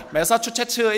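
매사추세츠 with Korean-style flat syllables; Busan mispronunciation. Retold or imitated. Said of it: "이게 안 돼가지고".

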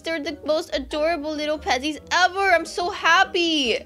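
high, loud happy squeal; excited squeal. Real, not acted. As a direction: cheer over the turkey. Got a rare turkey.

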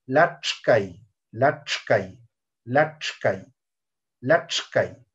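"Lachkai" with a curled-back ch before k; retroflex ch. Shown as a demonstration. Teacher showing the other retroflex, retroflex ch. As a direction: separate the retroflex ch inside "Lachkai". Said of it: "Allí está la pronunciación".

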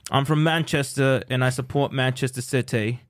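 Manchester football fan's British accent. Shown as a demonstration. Guest retrying the impression on request, British accent. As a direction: do a British accent, introducing yourself. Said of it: "British again".

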